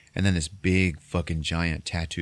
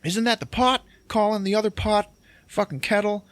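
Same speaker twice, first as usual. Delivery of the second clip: acted outrage, pitched way up; indignant outburst. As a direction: fire back in high-pitched outrage. Acted indignant retort to wife.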